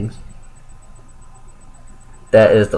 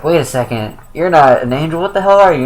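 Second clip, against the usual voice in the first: mock snapping angel; 5 semitones higher than usual. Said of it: "all of a sudden she kinda snaps".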